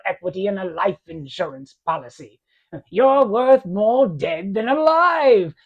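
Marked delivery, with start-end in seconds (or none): 2.9-5.5 slow contemptuous sneer. Acted. Potter taunting George.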